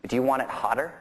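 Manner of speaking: imitated Cockney, brief retold question; Cockney impression of an older rocker; thick Cockney accent. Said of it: "in this real thick Cockney accent".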